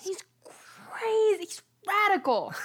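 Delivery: slow, hushed hype about Jesus; upbeat youth pastor. Retold or imitated. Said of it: "your youth pastor voice".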